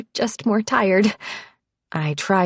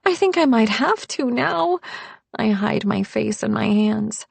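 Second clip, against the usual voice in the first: much higher, anxious and rushed; panicky; 8 semitones higher than usual. Acted. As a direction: spiral into panic. Narrator panicking to boyfriend.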